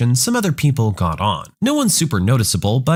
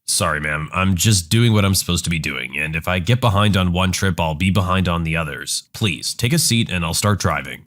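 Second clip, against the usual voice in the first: calm bus driver; 7 semitones lower than usual. Acted. Driver calmly asks her to sit.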